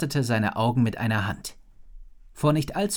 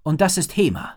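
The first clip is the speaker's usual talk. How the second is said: put-on friendly boy; 6 semitones higher, 5 dB louder than usual. A narrator's reading. Boy introduces dragon.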